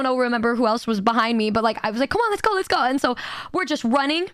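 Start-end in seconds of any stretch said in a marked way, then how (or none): 2.1-2.8 higher, mock-hurried rallying; retold urging. Rushing to the stage with friends, retold urging. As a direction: act out hurrying your friends along.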